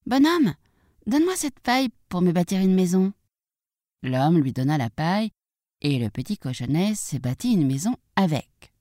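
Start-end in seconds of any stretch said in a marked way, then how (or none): 0.1-3.1 higher-voiced little pig. Little pig asks a man for straw, higher piglet voice. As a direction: pipe up as a piglet making a request.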